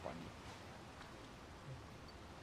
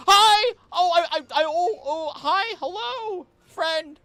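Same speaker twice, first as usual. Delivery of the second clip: much higher, louder, delighted hello; squealing greeting; 9 dB louder, slower than usual. Real, not acted. Streamer greeting a Pokemon, squealing excited hello. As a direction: gush at a cute creature.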